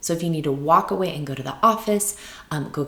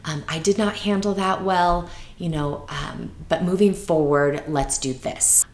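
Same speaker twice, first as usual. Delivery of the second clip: sincere apology; 2 semitones higher than usual. Retold or imitated. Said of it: "I just had to say".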